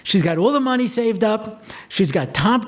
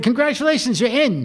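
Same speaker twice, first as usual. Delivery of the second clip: higher-pitched retold good news; congratulating; 6 semitones higher than usual. Rabbi calls the girl with her acceptance, congratulating. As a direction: announce it brightly, lightly acted.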